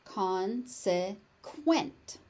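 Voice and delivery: slow "Consequent", con... se... quent; syllable by syllable. Shown as a demonstration. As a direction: separate each syllable of "Consequent". Teacher breaks word into syllables.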